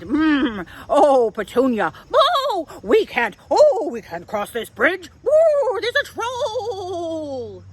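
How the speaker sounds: high, loud whimpering fright; scared goats. Acted. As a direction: plead in panic about the troll. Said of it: "Billy and Tilly seemed mighty scared".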